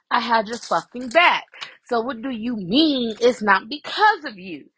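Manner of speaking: mildly heated retold rant; insistent, aggrieved retelling; mad, going in. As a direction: imitate an indignant friend defending herself. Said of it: "but she mad because she like".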